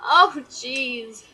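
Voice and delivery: words through a mock laugh; imitating a friend recovering from laughter; imitated laughing. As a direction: wind down from a pretend laughing fit. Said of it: "He's just laughing hysterically".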